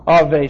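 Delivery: "ave" said ah-VAY, with a V sound; B pronounced V. Shown as a demonstration. Teacher explaining Hebrew spelling, demonstrating pronunciation of "ave". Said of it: "B is pronounced V".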